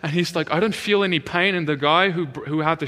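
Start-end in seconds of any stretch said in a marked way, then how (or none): 0.5-1.5 higher-pitched retold excitement; so excited. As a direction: imitate a man thrilled to be healed. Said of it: "freaking out, like, so excited".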